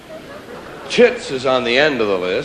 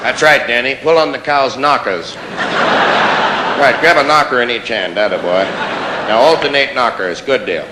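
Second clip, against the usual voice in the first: coaching voice; 3 semitones lower than usual. Pretend. Coaching a kid milking.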